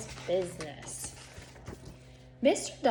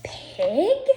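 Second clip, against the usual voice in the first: breathy startled whisper of the name; hushed surprise; surprised whisper; 10 semitones higher, 7 dB louder than usual. Acted. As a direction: gasp the name under your breath.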